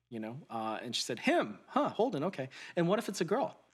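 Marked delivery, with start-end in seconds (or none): 1.2-3.6 high, laughing surprise; amused doctor. Retold or imitated. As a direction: catch the slip with a laugh, pitched well up.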